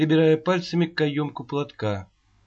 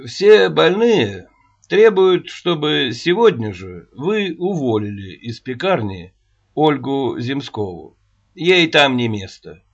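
serious; 3 dB louder than usual. Acted. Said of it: "серьёзно проговорил Рогачёв".

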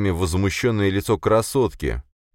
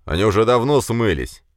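calling out; 6 semitones higher, 4 dB louder than usual. Acted. Searcher keeps calling out.

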